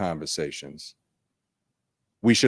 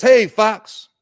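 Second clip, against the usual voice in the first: higher, bright-sounding fish voice greeting back; cheerful fish reply; 12 semitones higher, 6 dB louder than usual. Acted. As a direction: answer like a friendly little fish. Fish answers fox again.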